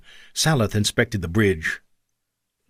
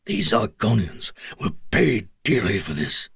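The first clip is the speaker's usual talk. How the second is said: angry oath. Acted. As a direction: swear it with menace. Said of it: "Saloth swore".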